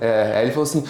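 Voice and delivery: ordinary talk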